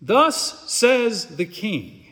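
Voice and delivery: very slow, weighty royal proclamation; large proclaiming voice. Acted. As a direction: announce the king's word, drawing out each word. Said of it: "called out in a large voice".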